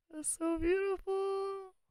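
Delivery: very high, weepy, tearful crying voice. Speaker reacting to a viewer's work, crying. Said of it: "I think I am crying".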